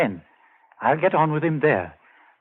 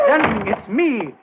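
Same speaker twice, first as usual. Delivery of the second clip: louder, higher call through the door; 9 semitones higher, 4 dB louder than usual. Acted. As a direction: call to him to calm him.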